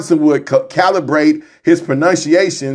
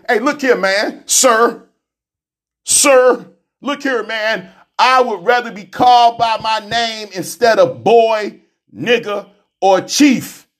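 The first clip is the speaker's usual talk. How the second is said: higher, firm voice of the chauffeur standing his ground; voicing the chauffeur; 5 semitones higher, slower than usual. A black chauffeur telling LBJ to call him by name, higher and firm. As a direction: play the chauffeur setting LBJ straight.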